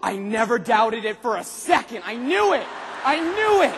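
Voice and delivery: a hammed-up sudden believer; gasping mock triumph. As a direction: fake triumphant gloating after the big win. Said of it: "That's what people do".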